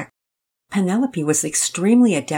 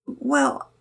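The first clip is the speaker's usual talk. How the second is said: whisper. A narrator's reading. Penelope hesitates, exhausted.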